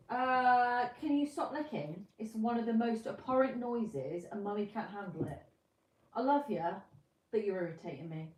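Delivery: mother scolding her licking pet. Real, not acted. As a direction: stop the dog licking, fed up but fond.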